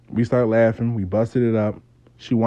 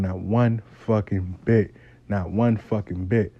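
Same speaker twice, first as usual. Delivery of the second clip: "not one fucking bit" low, slow, word by word; weighty, lowered repeat of "not one fucking bit"; deliberate emphasis; 4 semitones lower, 4 dB quieter than usual. Real, not acted. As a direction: spell out "not one fucking bit" slowly, pitch dropped. Repeats for emphasis that nothing moved.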